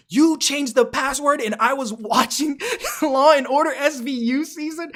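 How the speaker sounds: high mocking ex-girlfriend through laughter; laughing ex voice. Streamer mimicking ex's complaint, laughing high. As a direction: mimic her whining while cracking up.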